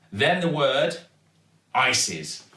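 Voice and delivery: usual speaking voice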